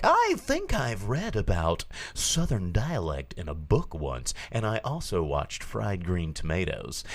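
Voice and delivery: lightly mimicked L A lady; gently mocking L A lady voice. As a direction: imitate an earnest L A dialect coach, lilting. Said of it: "L A lady who's like".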